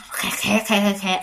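snake hiss imitation. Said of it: "y như con rắn".

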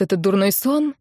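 ordinary delivery

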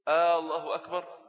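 آه الله أكبر with a long drawn opening and rising tune; questioning takbir. Shown as a demonstration. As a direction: ask it like a doubtful question. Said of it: "بقت استفهام". (الله أكبر بنبرة استفهام)

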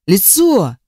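лицо with the voice cracking; voice breaking. A narrator's reading. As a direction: let лицо break apart. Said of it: "Голос его сорвался".

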